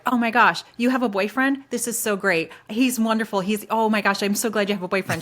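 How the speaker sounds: mock-gushing, high and loud, over the boyfriend; gushing excitement. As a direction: play the overeager coworker thrilled at the news. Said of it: "people who are like".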